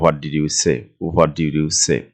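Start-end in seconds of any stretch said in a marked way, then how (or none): 0.0-0.8 slow, careful teacher's model of the question; slow model reading. Shown as a demonstration. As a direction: spell it out slowly for learners. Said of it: "past tense-এ আমরা এটা ব্যবহার করেছি".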